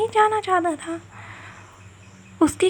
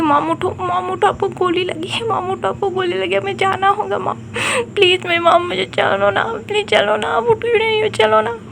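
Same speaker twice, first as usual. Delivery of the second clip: rising higher, begging mom to get up; desperate pleading child; 4 semitones higher than usual. Acted. Son begging his shot mother to get up, pleading. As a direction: plead harder each line, climbing higher.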